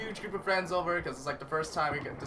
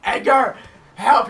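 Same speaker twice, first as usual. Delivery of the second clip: acted cry for help, high and very loud; calling out; 7 semitones higher, 14 dB louder, slower than usual. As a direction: yell to a friend far ahead. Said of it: "I called out Edgar".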